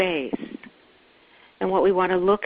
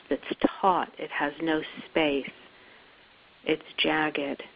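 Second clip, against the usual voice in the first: spacious guiding voice, settling as it goes; guided meditation. Acted. Guide asking listeners to sink back and feel, guided meditation. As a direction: lead them inward, pausing after each phrase.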